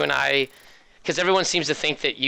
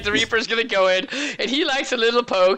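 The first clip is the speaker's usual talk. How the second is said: Swedish Chef voice; 6 semitones higher than usual. Acted. Caster narrating the Reaper in a goofy chef voice. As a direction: babble the play-by-play like a silly cartoon chef. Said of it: "I seriously was like".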